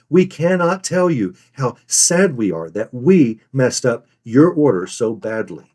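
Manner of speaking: slow, emphatic regret; deliberate, weighted delivery; scripted regret. Shown as a demonstration. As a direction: spell out the regret phrase by phrase. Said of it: "how terribly remorseful you are".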